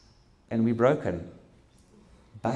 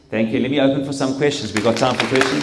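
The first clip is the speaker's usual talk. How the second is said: calling out; 4 semitones higher, 9 dB louder than usual. Real, not acted. Calling out to the audience.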